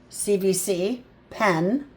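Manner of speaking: slow, careful teacher read; slow classroom breakdown of "pen"; slow sounding out. Shown as a demonstration. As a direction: spell it out slowly for kids. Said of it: "teacher sounding out".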